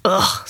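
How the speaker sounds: a short grossed-out "ugh"; disgusted ugh. Acted. Girl groans at wet walk in disgust. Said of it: "said Tammy in disgust".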